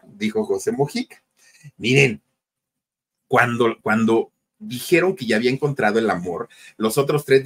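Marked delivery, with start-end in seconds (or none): none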